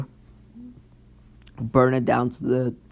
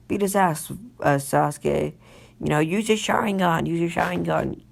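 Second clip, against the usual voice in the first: put-on high-pitched girly cheer; Ino cheering; 5 semitones higher than usual. Ino cheering Sasuke to use Sharingan, high girly cheer. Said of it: "That's what Ino is saying".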